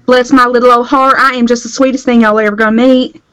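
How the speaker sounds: lightly voiced Southern belle. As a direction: gush like a Southern sweetheart. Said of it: "you do that other accent so well".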